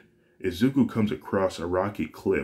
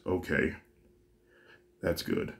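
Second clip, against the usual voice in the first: relieved sigh; 5 dB quieter than usual. Acted. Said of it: "Inko sighs in relief".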